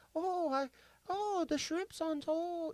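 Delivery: very high, soft, tiny, gentle sweet-lady voice. Telling a story about an older woman you met, doing a Betty White impression. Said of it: "like Betty White".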